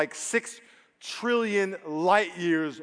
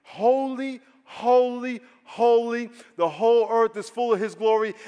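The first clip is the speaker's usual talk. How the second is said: "Holy, holy, holy" rung out higher, each word held; angels crying out; 5 semitones higher, 3 dB louder than usual. Retold or imitated. Pastor voicing the angels crying to one another, awed and ringing. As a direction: cry it out in awe like the seraphim.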